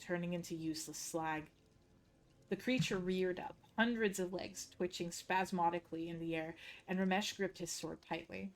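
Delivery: steady, measured storyteller read; story narration. A narrator's reading. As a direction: carry the listener through the dark scene. Reads a dark fantasy story aloud.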